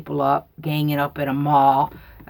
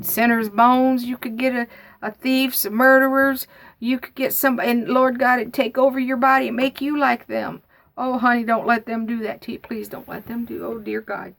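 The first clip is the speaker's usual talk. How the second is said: raised-pitch fretful pleading, lightly acted; worried going-on; 5 semitones higher than usual. Aunt pleading with the speaker over the bones, mildly worked-up fretting. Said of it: "she's just going on".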